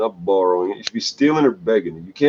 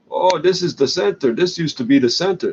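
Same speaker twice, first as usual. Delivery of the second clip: mocking; 6 semitones higher than usual. Mocking inmates bragging about jail.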